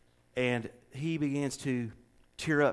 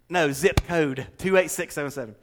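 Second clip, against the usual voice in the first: loud and higher, correcting; insistent, raised-voice correction; emphatic clarification; 5 semitones higher, 9 dB louder than usual. Real, not acted. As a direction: hammer each word home for the listener. Correcting a listener who missed it.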